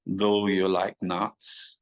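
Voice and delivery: a mild mock Austrian accent, drawn out slowly. Telling the crowd the Austrian woman's nut remark in a slow, mild Austrian accent. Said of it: "in her Austrian kind of accent".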